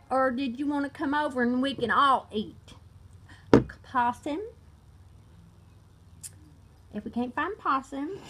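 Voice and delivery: drawling redneck accent; put-on country redneck. Shown as a demonstration. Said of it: "like to do a redneck accent".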